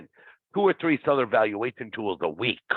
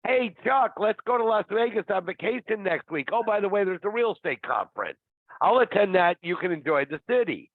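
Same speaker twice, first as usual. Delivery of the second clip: high-pitched, breezy sales-agent voice, raised well up; mock agent pitch; 6 semitones higher than usual. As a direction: sell the Vegas trip like a sly agent. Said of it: "real estate agents are notorious".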